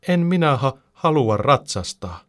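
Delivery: high, loud wail that slows down; bawling child. A narrator's reading. Little Karoliina refuses to ride, bawling. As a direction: protest like a crying little girl, acted. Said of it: "Karoliina alkaa parkua ääneen".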